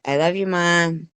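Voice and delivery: hint of a little kid's voice. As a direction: mimic a small voice calling to Mom. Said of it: "he's got that little voice".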